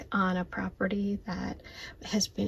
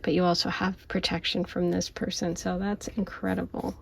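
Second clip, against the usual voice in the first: whispering. Real, not acted. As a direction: whisper so nobody wakes up. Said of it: "even though I have to whisper".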